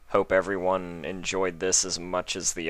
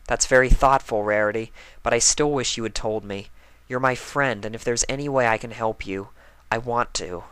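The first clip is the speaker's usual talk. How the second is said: Twilight voice; 4 semitones higher than usual. Acted. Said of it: "Twilight said".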